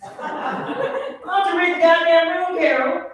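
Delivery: mock furious clapback; livid reply. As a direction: tear into her, hammed-up fury. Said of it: "And I was livid".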